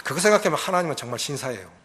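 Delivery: ordinary talk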